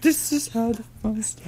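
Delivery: ad tagline. Pretend. Quoting the Seagram's tagline.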